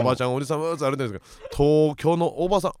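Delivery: mock Kansai manzai opener; playful fake Kansai patter; Kansai dialect. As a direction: open a manzai act in put-on Kansai. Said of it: "関西弁で、".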